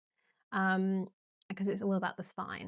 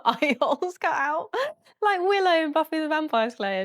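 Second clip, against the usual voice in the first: giddy; 7 semitones higher, 7 dB louder than usual. Real, not acted. Giddy joke about a sheet costume.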